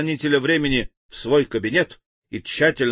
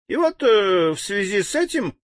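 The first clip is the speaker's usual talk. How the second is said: much higher, tittering nervously; nervous giggle; 10 semitones higher than usual. A narrator's reading. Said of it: "нервно захихикал Ментахо".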